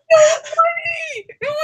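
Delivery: high laughing voice; real laughter; laughing hard. Real, not acted. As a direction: laugh through the words. Laughing while telling.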